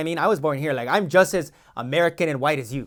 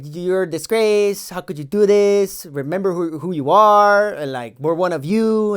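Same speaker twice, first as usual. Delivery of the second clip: angry detainees; 4 semitones higher, 4 dB louder, slower than usual. Retold or imitated. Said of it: "They're like".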